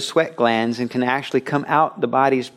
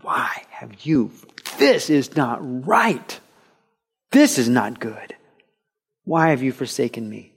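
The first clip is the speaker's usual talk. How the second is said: desperate whisper. Acted. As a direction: choke out the words in desperation. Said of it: "cried out in deep desperation".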